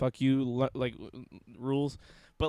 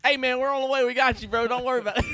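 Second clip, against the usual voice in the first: higher, louder mock Southern; Southern accent; 10 semitones higher, 7 dB louder, faster than usual. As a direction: answer back in a Southern accent. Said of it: "my easiest accent".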